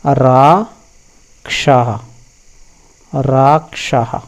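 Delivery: very slow राक्षः ending in a breathy visarga ह, no स; slow Vedic recitation; Vedic form. Shown as a demonstration. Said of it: "वैसे ही यहाँ पर है".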